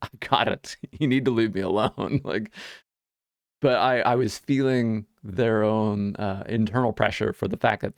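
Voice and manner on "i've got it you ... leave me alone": sharp rebuff. Retold or imitated. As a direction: shut the clerk down firmly. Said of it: "much more sharp with him".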